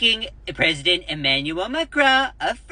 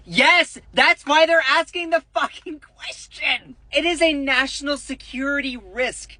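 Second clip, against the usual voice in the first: exasperated outburst; 8 semitones higher than usual. Real, not acted. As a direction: blow up at the absurdity. Outraged rant at Trump's reply.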